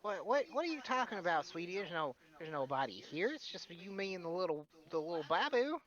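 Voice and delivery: high, sweet granny puzzlement; a fond old lady baffled; Meemaw voice. Acted. Philia confused at Buster's talk, high granny voice. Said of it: "She's like".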